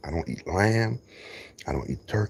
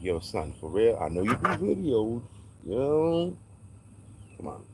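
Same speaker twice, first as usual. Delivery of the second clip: chickens talking; 4 semitones higher than usual. Acted. Chickens telling the video maker what they want, lightly voiced pleading. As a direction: give the chickens a street-talk plea. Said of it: "This is what they're saying".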